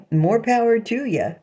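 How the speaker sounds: laughing it off with a high chuckle. Real, not acted. To the people mocking her, a laughing dismissal. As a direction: laugh through the words, dismissive. Laughing off critics' sexual tastes.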